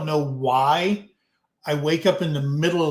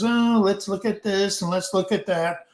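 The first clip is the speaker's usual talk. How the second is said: mock insurance voice; 4 semitones higher than usual. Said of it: "Your insurance says".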